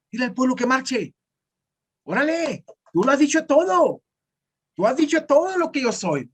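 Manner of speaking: God hurrying Moses along, half amused; a lightly voiced God calling on Moses. God voiced urging Moses to act.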